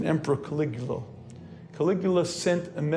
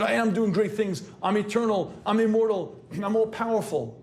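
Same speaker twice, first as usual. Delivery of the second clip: defensive bragging; 4 semitones higher than usual. Retold or imitated. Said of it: "he's got to answer".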